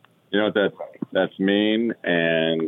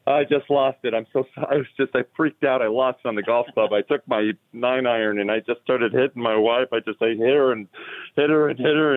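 raised-pitch joke caller, half tearful; mock hysterics; 5 semitones higher than usual. Golfer confessing to an emergency operator, mock hysterics. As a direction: play a distraught confession, lightly hammed-up. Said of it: "he's in hysterics and tears".

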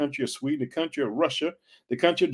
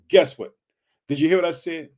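rousing call; 3 semitones higher, 4 dB louder than usual. Real, not acted. Preacher rousing the audience.

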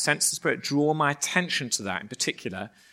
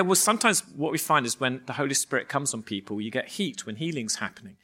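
feigned nonchalance; 2 semitones lower, 4 dB quieter than usual. Retold or imitated. Explaining the heat to his teammate, feigned nonchalance. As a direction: play it cool, tailing off quietly. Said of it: "I try to look nonchalant".

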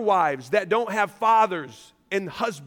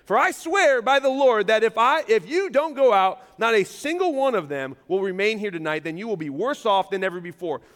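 frustrated warning. Acted. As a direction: press the threat, then let it settle. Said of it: "You can get that frustration".

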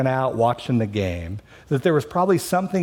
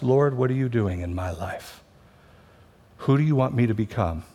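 humble surrender; 3 semitones lower than usual. Pretend. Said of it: "we can say the same sentence fr-, from two different hearts".

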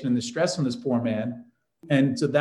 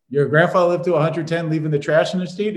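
mock disbelief, a bit louder; incredulous; 3 semitones higher, 5 dB louder than usual. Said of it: "they'd be like".

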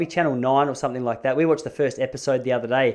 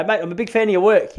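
higher, louder over-eager flattery; mock fawning; 7 semitones higher, 6 dB louder than usual. Fan flattering a man of questionable reputation, mock fawning. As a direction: gush like a hammed-up superfan.

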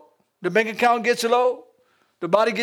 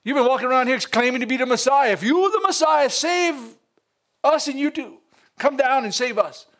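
mocking taunt; 2 semitones higher than usual. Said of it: "I'm just paraphrasing".

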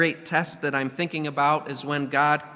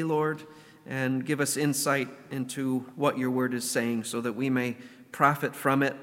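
prayer. Acted. Opening prayer before sermon.

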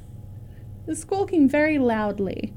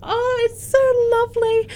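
high, teary-voiced old lady; tearful old woman; 12 semitones higher than usual. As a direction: laugh and weep at once. Olga moved by grandson news.

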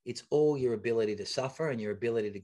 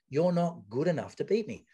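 bravado; 3 semitones higher than usual. Retold or imitated. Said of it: "I was just saying that in bravado".

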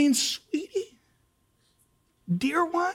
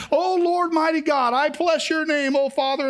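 churchy voice. Retold or imitated. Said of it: "talking like a church person".

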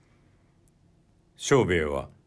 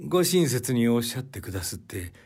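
lightly voiced prisoner; 2 semitones higher, faster than usual. Kisuke answers with smile.

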